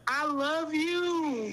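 drawn out and heartfelt; tender. Real, not acted. Young fan telling the host she loves her, slowly.

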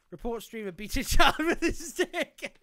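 high, breaking into giggles; laughing. Real, not acted. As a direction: laugh through the mock report. Laughing at own absurd mock report.

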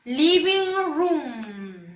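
"Living room" very slow, vowels drawn out; repeat-after-me model. Shown as a demonstration. Teacher has pupils repeat after Miss, slow drawn-out model. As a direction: stretch "Living room" for learners, room as "ruum". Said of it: "Repitan después de la Miss".

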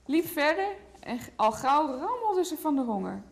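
put-on lively picture-book read to a toddler; reading to children. A narrator's reading. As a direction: tell the story gently to a small child. (voorlezen aan een kleuter)

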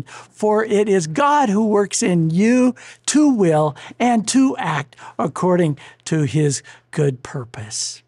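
emphatic, slow Bible reading; preacher quoting scripture, starting high and loud; scripture quotation. Acted. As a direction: proclaim the verse with deliberate weight. Quotes a Bible verse aloud.

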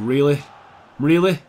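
fed up with the miss; exasperated really. Real, not acted. Teammate misses header.

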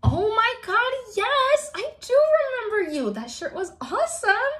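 high, gushing fan greeting; excited recognition. Acted. Host to a fan she met at VidCon, excited. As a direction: squeal with delight at remembering someone.

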